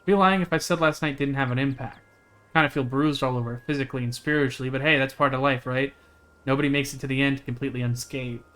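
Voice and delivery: plain, even reading of a character's lines; lightly voiced game dialogue. Streamer reading the friend's dialogue, lightly voiced. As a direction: read the friend's lines out steadily.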